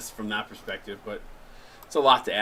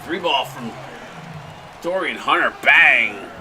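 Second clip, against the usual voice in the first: louder announcer call with a slowed finish; play-by-play call; 3 dB louder, slower than usual. Acted. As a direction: call the three like a TV commentator. Play-by-play of the game.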